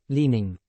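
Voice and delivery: leaning said clearly as LEE-ning, falling; teacher's model pronunciation of leaning; careful model word. Shown as a demonstration. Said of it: "Let's kick off with the phonetic transcription".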